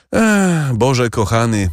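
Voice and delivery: exclaiming. A narrator's reading. Kadrus brushing off his worry. (głośny, wysoki wykrzyknik)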